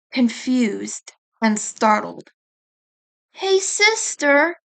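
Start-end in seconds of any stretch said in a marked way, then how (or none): 3.3-4.6 high, slow and drowsy, mid-yawn; just woken up, stretch the words; sleepy yawn. A narrator's reading. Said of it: "Monaco yawned".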